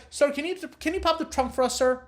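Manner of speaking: mock officer pitching up to demand the trunk; pushy cop voice. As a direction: play a cop pressing the driver hard. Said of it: "they'll be like".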